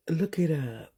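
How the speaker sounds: hushed whisper passing on a tip. Real, not acted. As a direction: lean in and whisper it. Confiding tip to viewers.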